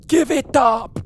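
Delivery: high mock yell with an odd accent; mock sailor shout. Imitating the sailor's cry to the crew, high mock yell. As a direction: bark it out like a strange sailor. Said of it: "what accent that was".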